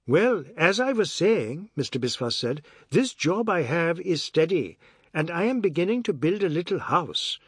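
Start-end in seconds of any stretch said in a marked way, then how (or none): 0.1-1.7 higher, slow lilting lead-in; lightly voiced man resuming his point; persistent Biswas. Biswas returns to his subject. 2.9-7.4 higher, lilting character voice; lightly voiced man announcing his plans; earnest Biswas.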